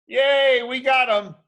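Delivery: high loud cheer. Acted. Cops to each other after the catch, cheering loudly. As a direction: celebrate the catch.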